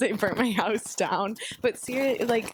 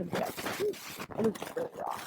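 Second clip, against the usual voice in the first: whispered; 7 dB quieter, much slower than usual. Retold or imitated. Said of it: "I said".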